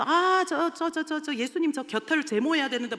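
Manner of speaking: high, loud silly interruption; cheeky kid. Retold or imitated. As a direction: blurt it like a prankster girl. Girl joking to disrupt.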